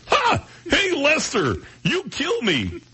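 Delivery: raspy alien puppet voice; Alf voice. Retold or imitated. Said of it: "It doesn't sound right".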